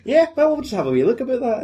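high put-on officer's reply; brisk, high-pitched character voice; police officer voice. Acting out Kiwi police officer.

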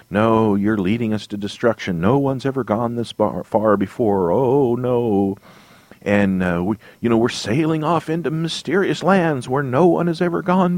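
mock panic. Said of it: "he's kinda freaking out and panicking".

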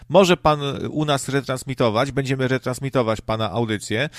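pompous station manager voice, imitated; a hint of a condescending manager; mock radio boss. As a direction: lay out the terms like a smug radio exec. Mocking radio station offer.

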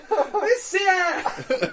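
high, slow, laughing awkward plea; drawn-out awkward voice. Pretend. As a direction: stretch it out, high and bashful. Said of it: "really awkward voices".

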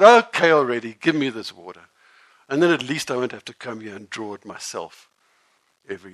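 loud, fed-up outburst; exasperated. Acted. Woman impatiently demanding the living water, loud and exasperated. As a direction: throw up your hands and give in.

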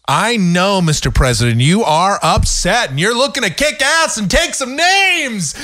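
rising, high-pitched sarcastic rallying cry; worked-up excitement. Real, not acted. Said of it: "I got more excited than the president".

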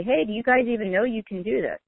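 facetious, lightly indignant challenge; mock upset. Fed-up voter facetiously challenging her representatives, mock upset. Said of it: "sometimes it makes me so upset".

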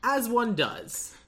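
slow, deadpan aside; dry aside. Real, not acted. Deadpan remark to co-host about a dragon. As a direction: let it land dry and slow. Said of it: "dry aside".

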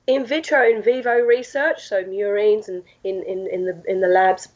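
losing voice, rough and strained; straining through a hoarse throat. Real, not acted. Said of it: "sorry, I'm losing my voice".

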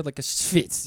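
schwitz with a light Jewish accent. Shown as a demonstration. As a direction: say schwitz in a Yiddish-flavoured accent. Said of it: "a good Jewish accent there".

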